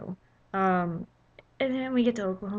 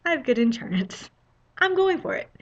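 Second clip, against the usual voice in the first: mock reckless bravado; dad's aggressive driving; 5 semitones higher than usual. To herself in traffic, mock daredevil bravado. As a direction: gun it like my dad would. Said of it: "I had to use my dad's, you know, aggressive driving skills".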